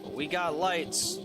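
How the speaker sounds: energetic live race commentator voice; play-by-play commentary. Acted. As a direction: call the drift battle as it happens.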